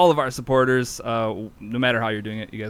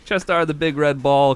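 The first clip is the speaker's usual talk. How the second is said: excited announcement; 3 semitones higher, 4 dB louder than usual. Real, not acted. Announcing the winning ball.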